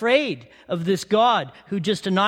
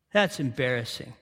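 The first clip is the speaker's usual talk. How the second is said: softer and lower muttered repeat; quiet aside; 9 semitones lower, 5 dB quieter than usual. Shown as a demonstration. Preacher judging Jonah's prayer, softer repeat. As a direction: drop it low, like shaking your head.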